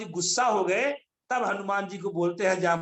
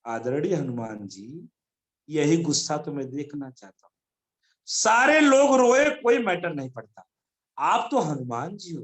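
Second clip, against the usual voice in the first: respectful Jamvant; 5 semitones lower than usual. Retold or imitated. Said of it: "तो जामवंत जी बोलते हैं".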